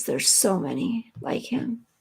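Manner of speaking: a soft, breathy whisper of quiet sorrow; a hushed aside full of real feeling; sad whisper. Real, not acted. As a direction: let it fall to a whisper, almost to herself. Repeats the line, then whispers it.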